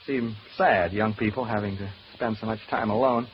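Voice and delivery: low, wistful musing; lonely, melancholy. Acted. Man alone remembering hard early years, melancholy. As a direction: sink into lonely reminiscence. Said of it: "I feel so lonely".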